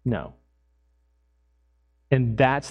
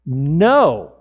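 a sharp, louder NO; firm loud no; 6 dB louder than usual. Retold or imitated. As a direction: refuse it flatly and firmly. Refusing the cash back prompt.

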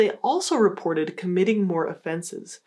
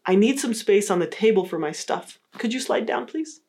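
assertive request. Shown as a demonstration. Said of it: "the more assertive approach would be to say".

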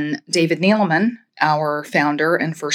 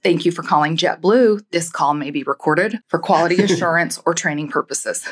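recorded phone greeting, even and polished; phone menu voice. Shown as a demonstration. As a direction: read it like the JetBlue hold message. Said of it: "that's your voice".

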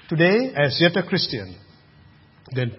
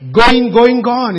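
auction call, louder; 7 semitones higher, 10 dB louder, slower than usual. Acted. Preacher cries out auction call.

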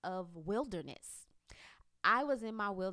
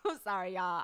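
laughing apology; 5 dB louder than usual. Real, not acted. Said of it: "getting excited all over again".

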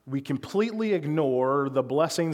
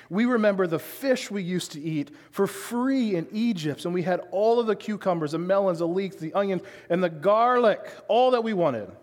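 whiny complaint, pitched up; higher, hammed-up whine of longing; 4 semitones higher than usual. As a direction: moan about what you used to have. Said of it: "really whiny voice".

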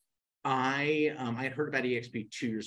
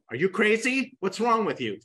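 higher, louder mock-outraged girlfriend; girlfriend's indignant reply; 12 semitones higher, 8 dB louder than usual. Girlfriend refusing his loan request, higher mock outrage. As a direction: play the girlfriend, aghast.

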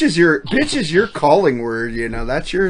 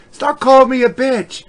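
higher-pitched mock scolding wife; put-on higher voice of a complaining wife; wife's protest; 8 semitones higher than usual. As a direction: imitate a wife's indignant objection, pitched up. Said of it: "my wife goes".

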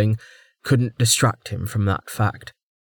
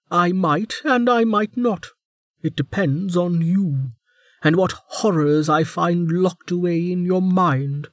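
higher, teasing warden; prison guard; 8 semitones higher than usual. A narrator's reading. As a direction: dangle the threat lightly. Warden voiced.

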